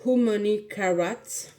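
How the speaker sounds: English product name with a French accent; slightly slow French-accented English. Real, not acted. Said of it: "Désolée pour mon accent anglais".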